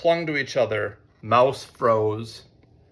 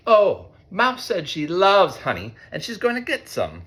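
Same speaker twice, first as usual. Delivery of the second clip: tattling mole; 6 semitones higher than usual. A narrator's reading. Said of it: "cried Mole from the puddle".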